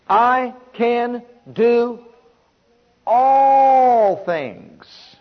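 slow then rising to a full shout on all things; drawn-out preaching cry; shouted declaration. Acted. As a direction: proclaim it triumphantly. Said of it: "preached climax".

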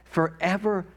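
passionate spoken prayer rising to praise; fervent prayer. Acted. Preacher praying aloud before the congregation, fervent. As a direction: pour it out as worship.

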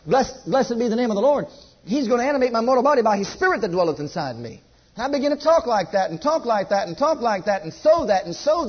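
emphatic preacher's confession of faith; rhythmic, insistent pulpit declamation; preaching declaration. Acted. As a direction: declare it firmly, phrase after driving phrase.

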